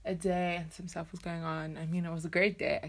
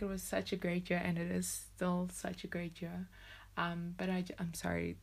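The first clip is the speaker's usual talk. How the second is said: teary. Real, not acted. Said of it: "getting teary".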